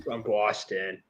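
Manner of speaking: slow put-on Boston accent; mock Boston accent. Host repeating the joke to co-hosts, slow mock Boston accent. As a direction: draw out Boston in a local accent. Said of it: "my best Boston accent".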